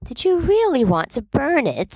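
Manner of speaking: high disbelieving question; can't believe it; incredulous. A narrator's reading. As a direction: Remus stunned at James. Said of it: "says Remus incredulously".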